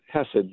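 hesed said as HEH-sed, stress first; stress on first syllable. Shown as a demonstration. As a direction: put the weight on the HE of hesed. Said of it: "the stress is on the first syllable".

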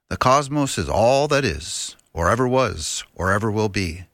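lightly imitated science-show host, measured phrasing; a hint of TV cosmologist, each phrase set apart; Carl Sagan. Guest quotes the show's opening line, light impression. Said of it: "Is that a decent Carl Sagan?".

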